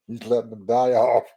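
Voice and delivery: talking through a laugh. Real, not acted. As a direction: laugh before and after the words. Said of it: "I'm, I'm laughing".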